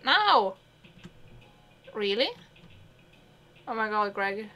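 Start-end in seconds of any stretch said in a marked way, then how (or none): 0.0-0.5 loud, high, eager now; eager shout. Acted. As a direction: blurt it out with glee.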